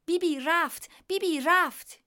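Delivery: very high, loud chattering bird voice; shrill starling uproar announcing Bibi left; noisy starling. Acted. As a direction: squawk it out like a caged talking bird.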